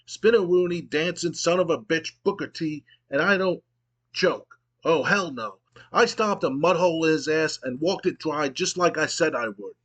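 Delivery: lightly voiced brash wrestler; Stone Cold promo. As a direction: bark it out like a heel on the mic, hammed-up. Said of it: "pauses and he goes".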